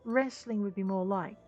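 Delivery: lightly voiced, earnest inventor; impassioned engineer. Engineer argues to keep his batch of sand, earnest and impassioned. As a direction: plead the case for your invention.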